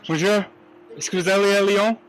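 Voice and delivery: high, bright-voiced French with a heavy American accent; thick American accent in French. Real, not acted. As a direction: ask politely in clumsy American-accented French. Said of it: "with these thick accents".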